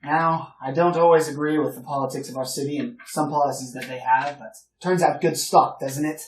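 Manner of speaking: put-on proud patriotic old gentleman; old gentleman chatting with the freed slave, hearty; a hint of the blustering old officer. Old gentleman lectures politics.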